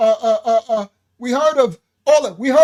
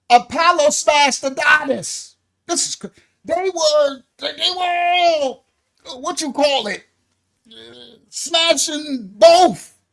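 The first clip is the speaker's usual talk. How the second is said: higher, drawn out, half laughing, voice cracking; laughing disbelief; 5 semitones higher, slower than usual. Real, not acted. Teacher telling students about Apollo, cracking up. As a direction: overcome with laughter at the myth. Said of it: "emotions going on".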